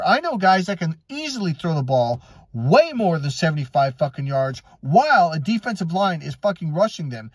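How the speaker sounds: normal talking voice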